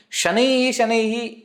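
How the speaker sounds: shanaihi, shanaihi lifted high; emphatic repetition. Shown as a demonstration. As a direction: repeat shanaihi twice, high and stressed. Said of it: "it adds on to the meaning".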